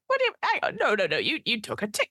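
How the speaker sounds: high, flustered clerk voice; a baffled goblin losing the thread; confused goblin clerk. Acted. Goblin woman to vanishing noble, high flustered voice. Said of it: "The goblin woman is like".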